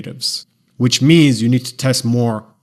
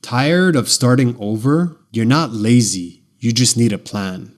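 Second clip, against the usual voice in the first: gentle, understanding ad read; empathetic. Shown as a demonstration. Demo ad line for dieters who keep quitting, empathetic. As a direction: reassure someone tired of starting over. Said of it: "An empathetic tone sounds something like this".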